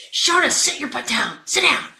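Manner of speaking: high-pitched, impatient dismissal; exasperated command. Retold or imitated. Coach to an eager benched player, exasperated command. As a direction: cut the pleading player off sharply.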